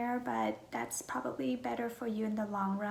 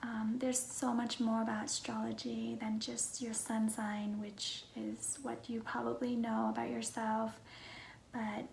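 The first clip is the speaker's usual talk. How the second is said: hushed, half-whispered self-introduction; soft-spoken vlog; 4 dB quieter than usual. Real, not acted. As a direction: talk gently, close to a whisper.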